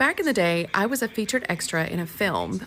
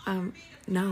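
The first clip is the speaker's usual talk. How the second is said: laughing refusal; 10 dB quieter than usual. Retold or imitated.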